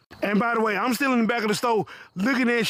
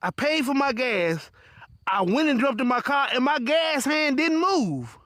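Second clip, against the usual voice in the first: confused man, slowly explaining; slow confused customer; slower than usual. Retold or imitated. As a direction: spell it out slowly, baffled. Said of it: "He was like".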